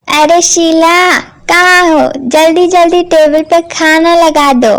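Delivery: loud call across the house. Acted. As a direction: shout for her to come. Stepmother calling out across house. (ज़ोर से आवाज़ लगाना)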